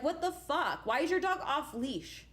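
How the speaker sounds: retold exasperated outrage. Retold outrage at loose dog.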